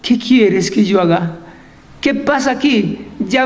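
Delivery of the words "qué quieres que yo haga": low, mildly timid question; a touch of trembling submission; fearful. Acted. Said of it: "él temblando y temeroso dijo".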